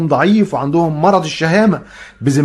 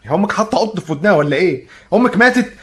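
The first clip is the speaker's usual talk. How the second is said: louder, higher yelling that climbs; shouting for her; 6 semitones higher, 4 dB louder than usual. Acted. Yelling for the maid who doesn't answer. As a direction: holler across the house for help.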